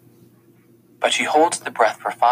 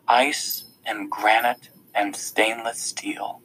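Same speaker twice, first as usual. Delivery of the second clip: usual speaking voice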